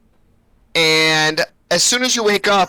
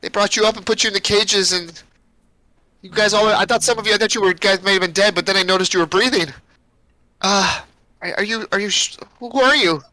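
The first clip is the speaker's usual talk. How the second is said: put-on slightly raised, halting girl's voice; little girl; 3 semitones higher than usual. Captive girl telling newcomers about the witches, lightly voiced child. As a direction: stumble through it as a young girl. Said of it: "she goes".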